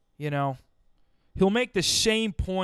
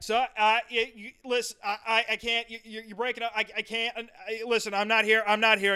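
1 broken phone call; 5 semitones higher than usual. Retold or imitated. Acting out a bad phone line.

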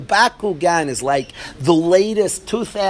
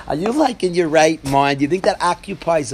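incredulous king; 4 dB louder than usual. Acted.

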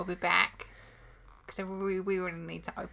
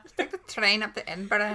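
louder amused Scottish accent; 5 dB louder than usual. Shown as a demonstration. Repeating the demo for a laughing friend, Scottish accent. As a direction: play a Scot, tickled. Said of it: "to do a, a Scottish accent".

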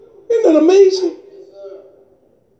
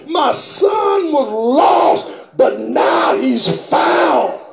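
preacher stirs the congregation, calling out fervently; preaching. Real, not acted.

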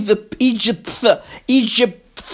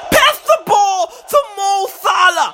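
exasperated pleading; 2 semitones higher than usual. Real, not acted. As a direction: beg the team as if it were obvious. Pleading with players to pass.

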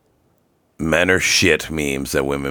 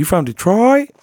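put-on much higher, a failed stab at a Louisiana accent; imitating a Southern woman asking where he's from, bad Louisiana accent; mock Louisiana accent. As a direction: impersonate the Louisiana girl's accent, badly. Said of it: "she had that fucking accent".

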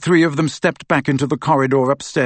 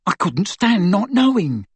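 high-pitched, pained confession; mildly distressed, raised pitch; anguished; 8 semitones higher than usual. A narrator's reading. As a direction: plead it with a touch of anguish. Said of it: "Tonks looked anguished".

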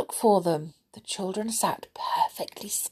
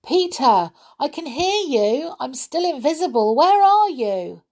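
put-on young girl voice; 8 semitones higher, 5 dB louder than usual. A narrator's reading. Invisible Molly calls to Peter.

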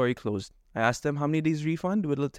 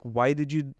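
fuming rant; faster than usual. Retold or imitated. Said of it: "And now I am fuming".

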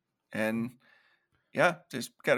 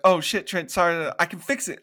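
flustered apology; 4 semitones higher than usual. Retold or imitated. Chewie apologizes to angry Trent.

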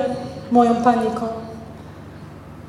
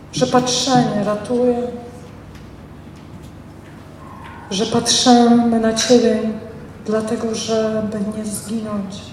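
heartfelt prayer; 3 semitones lower than usual. Acted. Preacher praying aloud for the congregation, earnest prayer.

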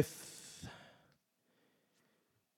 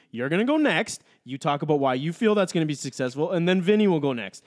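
raised, exasperated yell at co-host; loud sharp voice; 3 semitones higher than usual. Real, not acted. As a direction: bark out the rules, fed up. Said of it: "Stop yelling".

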